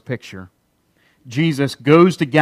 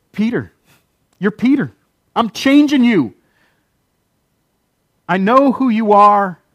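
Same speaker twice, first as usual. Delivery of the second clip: higher, louder, insistent declaration; emphatic proclamation; 6 semitones higher, 4 dB louder than usual. Retold or imitated. Jesus telling Peter his new name, emphatic and raised. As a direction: announce the new name with force.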